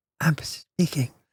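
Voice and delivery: speaking into a smile, barely enunciating. Demonstrating a speaking exercise, barely enunciating. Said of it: "But barely enunciate and just go".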